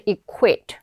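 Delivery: equip with a clear kw glide; clear QU sound. Shown as a demonstration. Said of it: "발음도 여러분들 Q U 발음". (equip의 qu를 '크+우'로 또렷하게)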